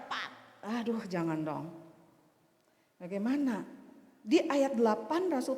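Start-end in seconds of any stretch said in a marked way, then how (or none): none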